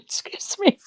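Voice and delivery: breathy laugh through hiccups; hiccuping laugh. Real, not acted. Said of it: "pardon me, I got the hiccups".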